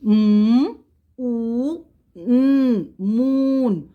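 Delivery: loud letter by letter, M, O, N, then moon; loud spelling drill. Shown as a demonstration. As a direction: call out each letter firmly for the class. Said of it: "let's read the spelling".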